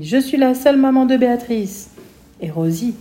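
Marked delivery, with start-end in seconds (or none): 0.0-1.9 high, loud furious outburst; angry cry. A narrator's reading. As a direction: shout her claim as the only mother. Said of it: "Elle crie". (cri de colère)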